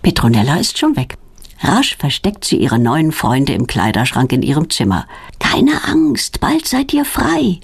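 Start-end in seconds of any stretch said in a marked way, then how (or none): 5.4-7.6 promising softly. A narrator's reading. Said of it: "verspricht sie".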